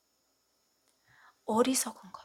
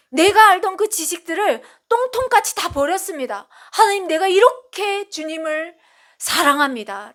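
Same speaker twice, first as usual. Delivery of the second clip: higher, louder fervent confession of love; fervent prayer; 6 semitones higher, 5 dB louder than usual. Pretend. Believer confessing love to God, fervent and raised. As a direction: pour it out like a believer's eager vow. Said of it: "라고".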